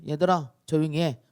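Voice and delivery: understated acted rebuke; mild scolding. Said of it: "바람과 물결을 꾸짖으시면서요".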